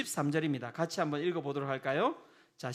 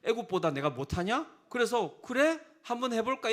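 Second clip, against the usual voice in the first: piqued God; 5 semitones higher than usual. Acted. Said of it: "하나님도 빈정상한 거예요".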